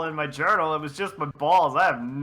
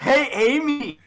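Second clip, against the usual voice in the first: Sonic voice; 7 semitones higher, 4 dB louder than usual. Acted. S1 voicing Sonic in story.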